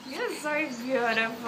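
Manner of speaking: lilting praise for a little one. Real, not acted. Mother admiring her babbling baby, cooing baby talk.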